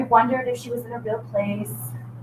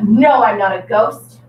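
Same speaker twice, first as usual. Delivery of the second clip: too much attitude; 5 dB louder than usual. Shown as a demonstration. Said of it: "Too much attitude".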